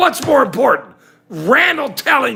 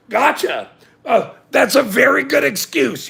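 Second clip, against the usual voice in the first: mock outrage; 4 semitones higher, faster than usual. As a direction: tear into him, scoffing. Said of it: "the rest of us are going".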